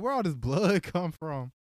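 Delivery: slow, stunned disbelief; slow shocked question. Retold or imitated. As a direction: drag it out in shock. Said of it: "I was like".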